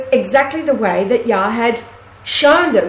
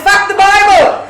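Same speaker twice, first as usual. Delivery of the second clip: put-on loud, high French-accented outburst; mock French defiance, laughing; 10 semitones higher, 7 dB louder than usual. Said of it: "he says in his French accent".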